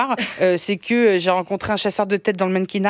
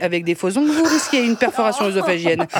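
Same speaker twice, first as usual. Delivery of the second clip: lower, rattled-off legal warning; disclaimer read; 3 semitones lower than usual. Pretend. Parody ad's legal disclaimer, rattled off. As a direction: read the risks like the end of a drug ad.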